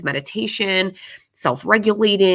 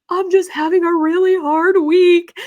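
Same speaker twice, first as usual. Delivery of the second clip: higher, louder, brushing it off with a laugh; higher, louder nervous laugh covering shame; forced light laugh; 14 semitones higher, 5 dB louder than usual. Retold or imitated. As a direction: fake a breezy laugh to hide it. Retold covering up on phone.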